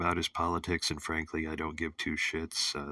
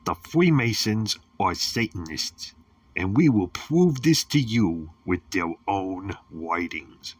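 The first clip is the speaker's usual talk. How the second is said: mock conspiracy announcer; 3 semitones higher, 8 dB louder than usual. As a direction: declare it like a grim conspiracy preacher. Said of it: "No, I'm only kidding".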